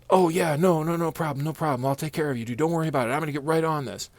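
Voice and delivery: mock casual promise; lightly voiced carefree boss; breezy boss.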